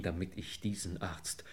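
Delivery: whisper, too ashamed to say it aloud; small whispered admission. Acted. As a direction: drop to a whisper on the confession. Desperate plea to inspector.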